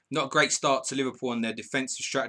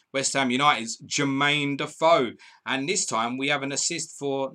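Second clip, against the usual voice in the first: goal announcement; 4 semitones higher, 5 dB louder than usual. Real, not acted.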